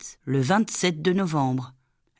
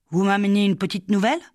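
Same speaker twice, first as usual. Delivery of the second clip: voix plus aiguë et rapide, toute gaie; jeune maîtresse enjouée; 5 semitones higher, faster than usual. Acted. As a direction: accueillir la nouvelle avec entrain. La jeune sous-maîtresse accueille. (la jeune sous-maîtresse salue l'enfant, aiguë et rapide)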